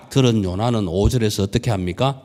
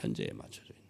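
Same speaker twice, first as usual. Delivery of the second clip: "현재에 맞춰져 있는" breathed much lower and softer; whispered echo; 13 semitones lower, 17 dB quieter, faster than usual. Shown as a demonstration. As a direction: drop to a whisper to let it sink in. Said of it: "whispered echo".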